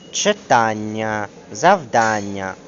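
ЧИТАННЯ, ЗАВДАННЯ slowly, with the beat on АН; stressed suffix. Shown as a demonstration. Teacher giving examples, stressed suffix. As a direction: lean on the AN syllable in ЧИТАННЯ and ЗАВДАННЯ. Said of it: "мають наголошений суфікс".

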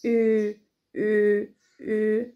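او with lips pursed hard; او pushed through fully closed-round lips; German Ü. Shown as a demonstration. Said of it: "بنضم بقنا فيه خالص جدًا".

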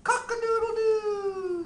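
high, loud rooster crow. Pretend. Rooster call.

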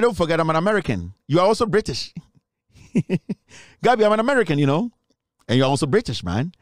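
mock American accent. Host reminds Gabby of their nationalities, mock American accent. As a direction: tease him in a playful fake American voice. Teasing with American and British identities.

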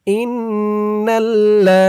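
ইন্নাল্লা with long-held n and doubled l; correct pronunciation demo. Shown as a demonstration. Teacher breaking words down, ইন্নাল্লা slowly chanted. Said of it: "সঠিক উচ্চারণ করে বলে দিব".

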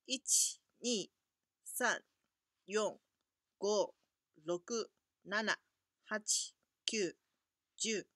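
ichi to juu read in one go; counting in Japanese. Shown as a demonstration. Teacher reading the numbers one to ten in Japanese. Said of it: "你们跟我读一遍".

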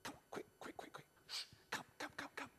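secretive whisper. Acted. Boy sharing his secret plan with the children, whispering. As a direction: whisper it so no one hears. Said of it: "Do you want to hear a secret?".

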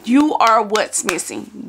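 slow, drawn-out preacher delivery; imitating the pastor preaching. Retelling Pastor Torrey's sermon to viewers, slow preacher cadence. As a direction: lean into the sermon line slowly. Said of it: "That's what he said".

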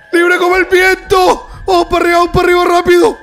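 excited cheering. Real, not acted. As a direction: cheer them on upward. Cheering the freed animal upward.

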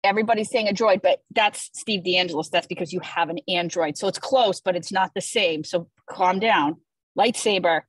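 ordinary talk, nothing marked

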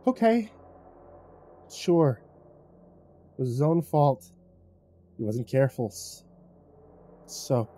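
tight, forced agreement; through gritted teeth. A narrator's reading. Narrator swallowing his anger with Kaz, through gritted teeth. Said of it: "through gritted teeth I said".

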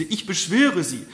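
loud, high, slow entreaty; imploring cry. A narrator's reading. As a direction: beseech her with all your heart. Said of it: "rief die Marquise".

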